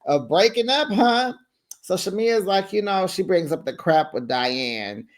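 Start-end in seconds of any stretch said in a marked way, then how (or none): 0.0-1.3 high, loud, teasing breakup line; hammed-up are we breaking up; mock dramatic question. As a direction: ask it with camp drama. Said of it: "I said".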